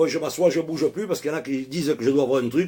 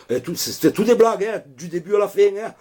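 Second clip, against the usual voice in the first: en riant; 8 semitones higher than usual. Real, not acted. Laughs while confessing the joke.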